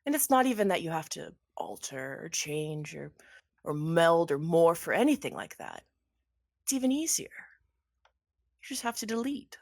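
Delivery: lightly voiced villain with stretched emphasis; gloating villain. Villain explaining to Anderson how easy the living are to change, gloating. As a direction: savour the explanation, lilting.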